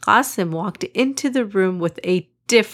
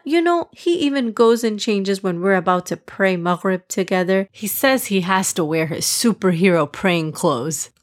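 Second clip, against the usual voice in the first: annoyed. Acted. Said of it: "Hassan said with annoyance".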